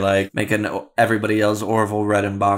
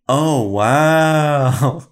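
mock audience awe; 5 semitones higher, 5 dB louder than usual. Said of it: "the whole audience goes".

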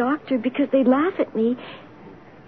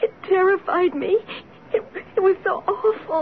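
put-on higher, shaken child's confession; frightened; 6 semitones higher than usual. Sick girl telling her father what scared her, frightened. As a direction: confide a fright, voice lifting.

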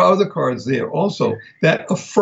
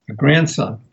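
ordinary talk

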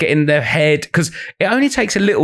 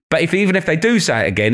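normal talking voice

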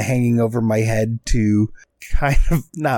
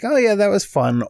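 breezy, higher-pitched imitation of approval; imagined light approval; 11 semitones higher than usual. Host predicts cohost liking next pick, breezy imitated approval. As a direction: lift the voice high, mock easygoing reaction. Acts out cohost's possible reaction.

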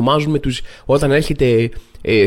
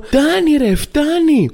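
high-pitched, worked-up cry of enough; exasperated yelling; 12 semitones higher, much slower than usual. Acted. Comedian acting his own meltdown over a weather term, high exasperated yelling. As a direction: yell it like a ranting viral video. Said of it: "Αρχίζω και φωνάζω".

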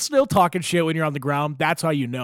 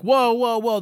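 higher, louder string of whoas; mock-alarmed, pitched-up protest; 7 semitones higher, 4 dB louder, slower than usual. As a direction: imitate staff trying to head off trouble. Staff react to drunk's outburst.

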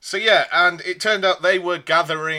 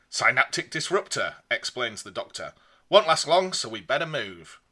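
reading a gamebook aloud; lively storybook read-aloud; story narration. A narrator's reading.

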